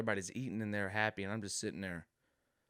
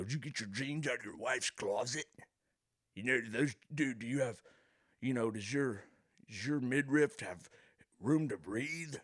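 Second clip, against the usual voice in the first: higher put-on redneck teasing; hammed-up redneck ribbing a city boy; mocking redneck; 4 semitones higher than usual. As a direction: needle him about his tight jeans in a redneck voice. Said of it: "He'll make fun of my".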